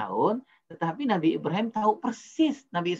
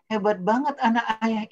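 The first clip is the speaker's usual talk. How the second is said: put-on bright, raised, louder gushing praise for a child; over-the-top praise to impress the kid; 5 semitones higher, 4 dB louder than usual. Father over the phone gushing praise at his son, raised and louder. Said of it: "Itu nggak pas".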